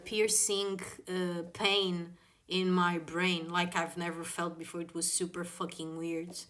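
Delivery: ordinary talk, nothing marked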